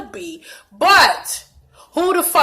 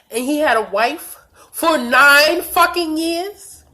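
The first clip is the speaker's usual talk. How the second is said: outraged disbelief; 5 semitones higher, 4 dB louder, slower than usual. Real, not acted. Outraged at the wife's news.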